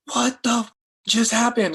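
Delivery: high, loud, amazed exclamation; stunned disbelief. Retold or imitated. Therapist and client stunned by her recovery, high amazed exclamation. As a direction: voice jumps up in shocked disbelief. Both stunned, crying together.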